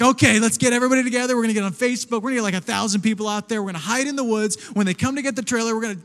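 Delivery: retold vigilante scheme, pushed out loud and quick; fired up. Pastor rallying everyone to ambush the trailer thieves, fired up. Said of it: "now I'm even more fired up".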